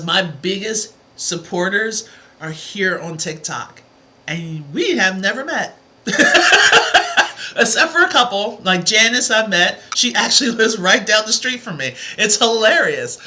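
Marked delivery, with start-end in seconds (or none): 6.1-7.5 loud airy laugh, pitched way up; high breathy laugh. Real, not acted. Telling viewers about Janice down the street, a high laughing burst.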